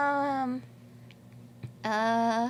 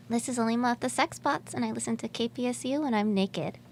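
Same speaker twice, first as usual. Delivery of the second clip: station drop voice; 3 dB louder than usual. Shown as a demonstration. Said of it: "I did it a special way".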